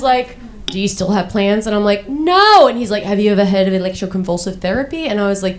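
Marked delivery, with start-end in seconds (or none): 0.7-1.7 lightly voiced Australian doctor; imitated Australian accent. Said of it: "he was Australian". 2.1-2.7 loud, high comic "no"; indignant denial. Acted. Acted indignant denial to the doctor. 3.0-5.1 quick, lightly voiced Australian doctor; imitated Australian accent. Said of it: "he was Australian".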